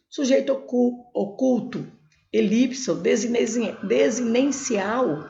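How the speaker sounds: desinencial drawn out syllable by syllable, slowly; teacher stretching each syllable of desinencial; slow spelled-out term. Shown as a demonstration. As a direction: sound out desinencial slowly for students. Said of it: "eu vejo através da desinência verbal".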